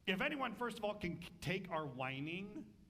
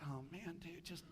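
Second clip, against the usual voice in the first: much softer, offhand and weary; casual exasperation; 7 dB quieter than usual. Retold or imitated. God telling Joshua to get up, casual and soft. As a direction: sigh it out like a bored buddy. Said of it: "God's like".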